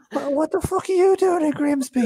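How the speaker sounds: very high, strained mock astonishment; astonished pub stranger. Drunk fan asking a supposed star, mock astonishment. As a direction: squeak it out in starstruck disbelief.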